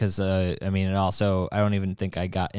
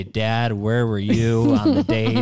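imitating his child. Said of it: "when my children say".

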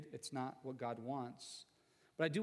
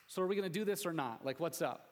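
quick, impatient-sounding mock come-on; hurried, casual caricature of a blunt husband; mock blunt proposition; 3 semitones higher, 3 dB louder, faster than usual. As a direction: blurt it out as the unromantic alternative. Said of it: "more effective in talking like this than saying".

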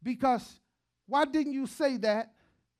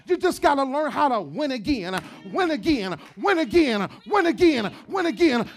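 building preacher shout; 6 dB louder than usual. Acted.

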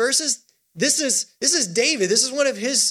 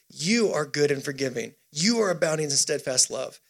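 lower, settled words of assurance; subdued worship; 5 semitones lower, 3 dB quieter than usual. Retold or imitated. Preacher voicing David holding on to God, low and settled. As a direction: bring it down into quiet conviction. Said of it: "That's David lifting up worship".

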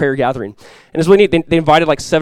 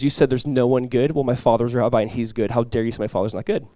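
grave, understated retold rebuke, trailing softer; retold heavy seriousness; 2 semitones lower, 4 dB quieter than usual. Pastor retelling a rabbi defending his father, understated heavy seriousness. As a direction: imitate a wounded challenge with restraint. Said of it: "really heavy and really serious".

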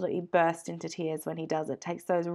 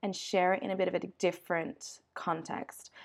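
stuffy nose. Real, not acted. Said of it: "so if I sound sniffly and awful".

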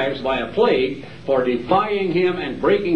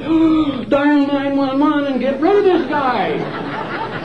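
high, laughing mock panic; mock alarmed homeowner; 6 semitones higher than usual. Homeowner calling for help on a ranting stranger, mock panic. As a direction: play a homeowner spooked by a lunatic, half laughing. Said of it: "You say".

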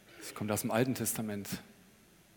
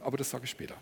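whispered; 8 dB quieter, much faster than usual. Acted. Teasing a secret for later.

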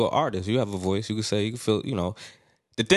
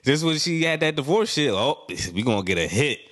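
much higher, gleeful mock fan smelling a sad hit; mock excited fan; 7 semitones higher than usual. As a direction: squeal with glee at her sad divorce. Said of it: "I was like".

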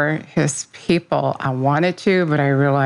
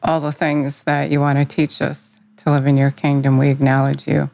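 earnest spoken prayer, even and steady. Real, not acted. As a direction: pray it sincerely to Jesus. Opening prayer to Jesus.

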